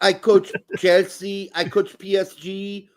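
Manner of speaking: slow, lightly put-on Russian accent; mock Russian accent. Joining in mocking the coach's boasts, slow mock Russian accent. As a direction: brag like a broken-English Russian coach, slowly. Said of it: "I went Russian there".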